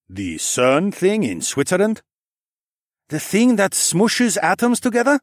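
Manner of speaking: put-on young woman's voice. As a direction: ask it, wide-eyed and curious. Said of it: "Sun He asked".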